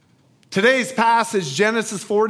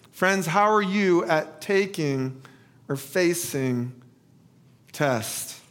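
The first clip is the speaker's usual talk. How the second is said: first asking; 2 semitones lower, 3 dB quieter, slower than usual. Shown as a demonstration. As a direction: leave gaps before the last words. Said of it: "ask this a little differently".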